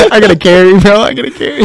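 high, loud hyped-up baller; hyped athlete voice. Retold or imitated. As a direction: pump it up like a star player carrying the team. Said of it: "He's like".

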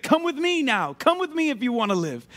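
high-pitched rescuer's call, settling back down; hero's rallying plea in own voice; urgent movie hero. Acted. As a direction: call someone out of danger, starting high. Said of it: "He was like".

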